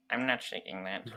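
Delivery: lightly voiced cartoon character; a hint of a game character's voice; Luigi. Joking about a star refusing a handshake, lightly voiced Luigi. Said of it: "go in his Luigi voice".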